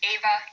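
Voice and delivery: Ava, first syllable a little stronger; stress on first syllable. Shown as a demonstration. Teacher sounding out students' names, Ava stressed on its first syllable. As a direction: lean on the A that opens Ava. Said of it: "first syllable just a little bit louder".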